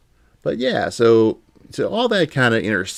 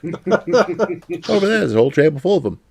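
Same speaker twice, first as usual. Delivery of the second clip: put-on British accent; 8 semitones higher than usual. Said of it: "he did the whole British accent".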